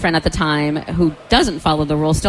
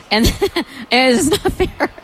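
laughing indignant; 6 semitones higher than usual. Real, not acted. Retelling unfair jail outcome, laughing.

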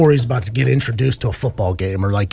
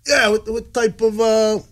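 eager dad; 7 semitones higher than usual. Retold or imitated. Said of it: "My dad goes".

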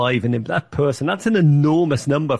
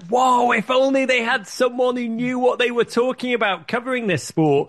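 mock yell at TV; 9 semitones higher than usual. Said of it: "I screamed at the television".

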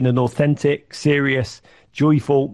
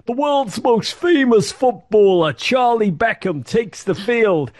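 high, slow, grandiose announcer voice; mock commentator; 8 semitones higher, slower than usual. Baseball commentator introducing England's team, slow mock announcer. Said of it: "The commentator said".

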